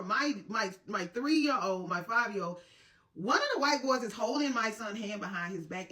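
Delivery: usual speaking voice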